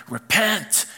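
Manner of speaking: a stern, drawn-out preacher's "Repent."; mock hellfire preacher. Preacher mocking how churches say repent, hammed-up. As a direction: hit "Repent." like a fire-and-brimstone preacher, no added vowel. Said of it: "I can't even do that voice".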